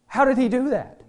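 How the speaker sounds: a hushed whoa that swings up into wonder; amazed whoa. Retold or imitated. Believer marvelling to his wife at being redeemed, in awe. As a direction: marvel at what He did. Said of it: "sit back and go".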